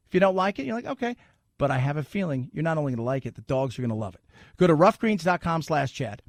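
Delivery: conversational host-read endorsement; easygoing radio spot delivery. Acted. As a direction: sell it like a personal testimonial. Reads a pet supplement ad.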